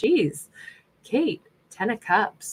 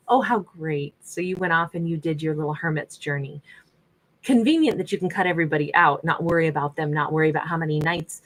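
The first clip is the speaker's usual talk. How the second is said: sarcastic jab; 2 semitones lower than usual. Real, not acted. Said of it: "I'm such a jerk right now".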